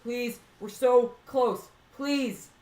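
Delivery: begging, voice rising high; desperate pleading. Real, not acted. Begging rocket during final burn.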